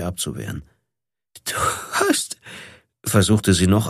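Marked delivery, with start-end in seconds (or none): 1.4-2.4 breathy high whisper of du hast; drained whisper of du hast; whispered attempt. A narrator's reading. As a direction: barely get du hast out, voiceless. Exhausted after attack, words fail.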